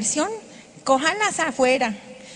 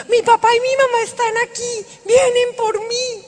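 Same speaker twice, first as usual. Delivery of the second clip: excited announcement; 8 semitones higher, 5 dB louder than usual. Retold or imitated. She tells sister her parents came.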